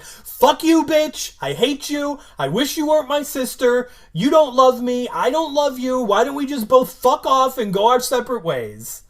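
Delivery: shrieking sister blowing up at Buffy, over the top; mock teen tantrum. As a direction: yell it like a bratty fifteen-year-old throwing a fit. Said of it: "she's like".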